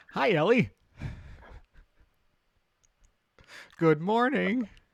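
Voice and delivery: shouting very loudly. Greeting a hungover companion in character at the bar: saying really loudly. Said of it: "I'm gonna say really loudly".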